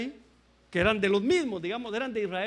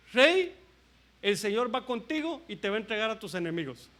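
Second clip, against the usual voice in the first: sarcastic prophet. Retold or imitated. Micaías prophesies what the king wants, mildly sarcastic. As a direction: call out to the king, then hand over a sham prophecy. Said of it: "me imagino que lo dijo con sarcasmo".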